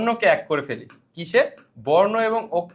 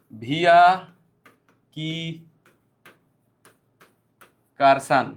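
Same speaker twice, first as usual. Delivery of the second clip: mock student text; 3 semitones lower, much slower than usual. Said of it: "message দেয় বা এইরকম লেখে".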